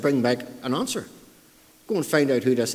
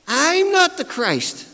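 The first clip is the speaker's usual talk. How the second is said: "I'm" very high, long and forceful; forceful stress on I; 11 semitones higher, 4 dB louder, slower than usual. Retold or imitated. Preacher as John disowning the title, emphatic high "I'm". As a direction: cry out "I'm" high, stretching it slowly. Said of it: "meaning it's stressed".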